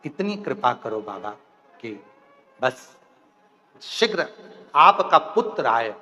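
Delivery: pleading demon. Acted. Tarkasur humbly begs Shiva for death, low soft plea.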